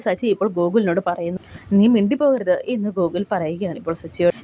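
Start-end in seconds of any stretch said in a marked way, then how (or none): 1.8-2.5 raised, louder warning voice; angry warning. Retold or imitated. Husband Gokul silencing Sachi at the gate, an angry raised warning. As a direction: snap a threat to shut him up.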